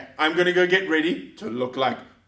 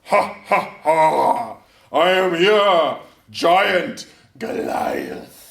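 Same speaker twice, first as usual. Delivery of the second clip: giant voice; 2 semitones lower, much slower than usual. Acted. Goliath giant voice in story.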